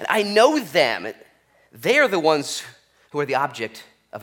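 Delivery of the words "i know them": smug name-dropping. Pretend.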